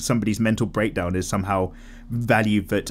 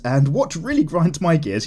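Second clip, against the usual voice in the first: slow, louder mock rant; mock angry; 6 semitones higher, 4 dB louder than usual. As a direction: ham up the grievance. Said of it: "Let's finish on some anger and hate".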